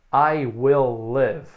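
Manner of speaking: "I will live" said very slowly with short i. Shown as a demonstration. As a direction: drag each word, short i. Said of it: "Então é bem curtinho".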